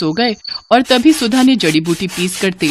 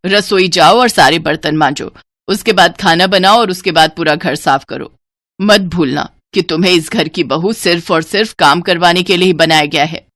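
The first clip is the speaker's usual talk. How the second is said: lightly voiced bossy mother-in-law. Mother-in-law piles chores on new bride, bossy. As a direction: order the new bride about, a touch stern. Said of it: "सुधा की सास विमला ने सुधा को हजार काम थमा दिए".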